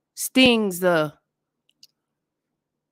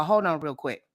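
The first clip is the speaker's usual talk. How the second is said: ordinary delivery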